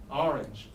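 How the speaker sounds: "Orange" starting with "ar", like "ar-inge"; Philadelphia "Orange". Shown as a demonstration. Teacher echoing student, Philadelphia "Orange" as "ar-inge". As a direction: say "Orange" with an AH vowel. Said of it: "'cause that's how they say it".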